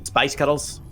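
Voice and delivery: Spice Cuddles in a mock Glasgow accent; light Glaswegian take on Spice Cuddles. Shown as a demonstration. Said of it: "So if you go".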